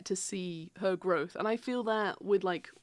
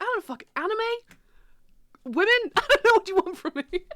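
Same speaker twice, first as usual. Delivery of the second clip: high, louder, laughing mock panic; flustered laughing; 11 semitones higher, 6 dB louder than usual. Answering her friend's grilling, high and laughing.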